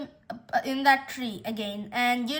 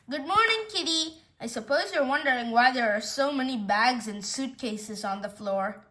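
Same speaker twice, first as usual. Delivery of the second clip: lightly voiced pet owner. Owner greeting the cat amid packed suitcases, lightly sing-song.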